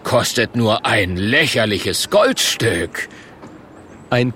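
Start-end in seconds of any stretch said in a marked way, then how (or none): 0.0-3.1 slow, stretched sales pitch; showman's call. Acted. The Murk touting the price, barker's patter. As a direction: sell it with drawn-out emphasis. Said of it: "ruft der Murk".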